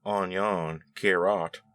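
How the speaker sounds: slow, lightly imitated Cajun accent; Justin Wilson. Quoting a TV chef's catchphrases, Cajun accent. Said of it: "the way he pronounces things".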